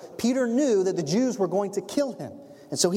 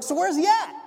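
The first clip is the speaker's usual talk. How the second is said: pitched-up asking voice; the praying church asking Rhoda where Peter is; high mock question; 13 semitones higher, 4 dB louder than usual.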